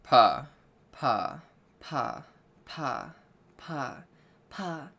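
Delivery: pa syllables stepping up to very high, then back down; pitch siren on pa. Shown as a demonstration. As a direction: climb the pitch one pa at a time, then descend. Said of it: "all right, two more times".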